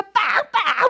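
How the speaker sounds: loud mimicked honking; punchy vocal car horn; imitated car horn. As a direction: honk like an impatient driver behind. Imitates horns honking behind her.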